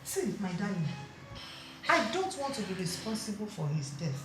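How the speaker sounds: soft, slow, reassuring explanation; gentle counsel. Acted. Auntie calmly comforting the worried wife, soft and slow. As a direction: soothe her like a wise elder.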